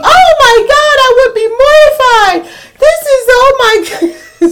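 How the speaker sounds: mock horror. Mocking church members' dramatic reactions.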